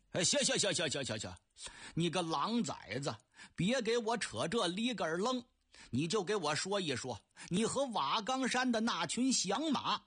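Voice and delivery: brushing him off with a quick string of words; a cranky old man cutting off the flattery; impatient old man. Acted. Old Ding Yanping waving off his godson's fawning, impatient and quick.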